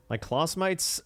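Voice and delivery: trying on an Australian accent; drawn-out Australian pronunciation; slow attempt at an Australian accent. Shown as a demonstration. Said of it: "I could read this in an Australian accent".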